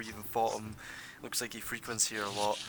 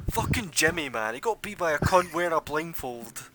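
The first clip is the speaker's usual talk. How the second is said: louder, higher outraged punter; angry losing bettor; 6 semitones higher, 10 dB louder, slower than usual. Acted. Crowd member who lost money on Jimmy, outraged rant. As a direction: rant about the lost bet, rising to a yell. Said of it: "and they're all like".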